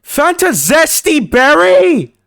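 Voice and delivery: high, slow dramatic announcer. Pretend. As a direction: draw out the name grandly. Dramatic reading of name.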